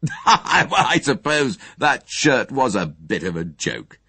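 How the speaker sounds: slow, laughter-filled admission; amused, laughing. A narrator's reading. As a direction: speak on the tail of a guffaw. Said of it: "sudden explosion of laughter".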